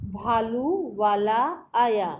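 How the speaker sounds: भालू वाला आया read slowly, syllable by syllable, falling at the end; slow reading aloud. Shown as a demonstration. Teacher reads to class, slow and clear. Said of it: "चलिए पढ़ना शुरू करते हैं".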